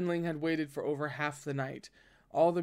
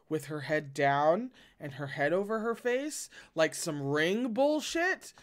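incredulous. Real, not acted. Reader recaps in disbelief.

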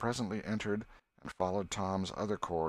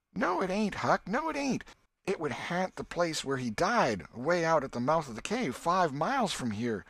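much higher, eager denial; excited insistence; 9 semitones higher, 5 dB louder than usual. Acted. Tom insists to Huck the ghost isn't here, high and excited. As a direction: brush off his fear, wound up.

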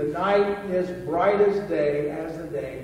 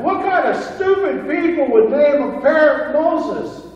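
mocking burglar; 9 semitones higher, 10 dB louder than usual. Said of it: "the burglar laughed".

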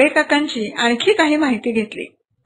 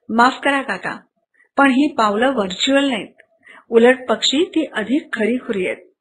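reassuring. Acted. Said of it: "समजावणीच्या सुरात म्हणाला".

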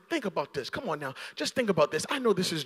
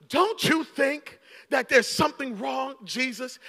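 mock complaint; 6 semitones higher than usual. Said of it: "She snaps on Jesus".

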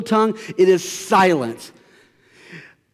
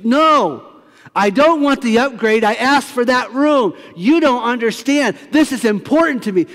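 irate guest; 6 semitones higher than usual. Retold or imitated. Guest escalates her complaint.

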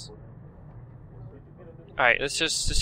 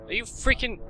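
disbelieving; 10 semitones higher than usual. Real, not acted. Gamer stunned by a wasted cigarette, disbelieving. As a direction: stretch it out in disbelief. Shocked at game event.

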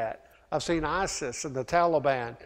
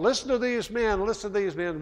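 retold calling out, pitched up; higher-pitched call at everyday volume; 5 semitones higher than usual. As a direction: mildly imitate a girl calling after men. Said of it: "she's calling out".

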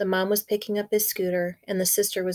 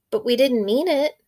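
put-on protesting boy; 5 semitones higher, 5 dB louder than usual.

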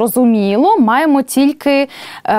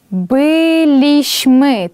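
slow, stretched «билішми»; slow model pronunciation; 2 semitones higher, much slower than usual. Shown as a demonstration. Teacher modelling the answer for the class, slow and clear. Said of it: "через м'яку ель".

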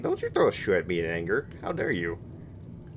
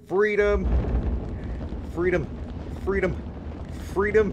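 freedom yell; 12 semitones higher than usual. Real, not acted. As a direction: roar it like a jailbreak. Running leap, repeated battle cry.

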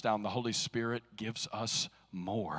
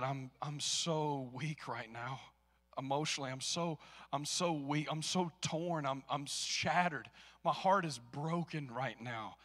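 broken prayer. Retold or imitated. Pastor retells tearful prayer in store.

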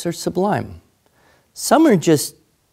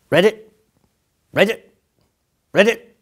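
toad croak; 7 semitones higher, 3 dB louder than usual. Acted.

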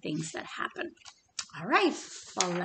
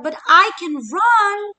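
much higher, much louder yell; yelling chick; 9 semitones higher, 11 dB louder than usual. Acted. Little Chick yelling back at Hen, high loud yell. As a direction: shout it out proudly. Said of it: "Little Chick yelled".

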